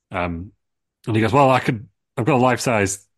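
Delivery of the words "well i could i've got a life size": lightly voiced, in the style of a song.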